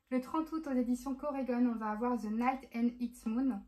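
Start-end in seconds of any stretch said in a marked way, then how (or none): 2.2-3.6 "The Night and Its Moon" read slowly in French-accented English; slow, careful English title with a French accent; English title said with a French accent, a bit hesitant. Real, not acted. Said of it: "Désolée pour mon accent anglais".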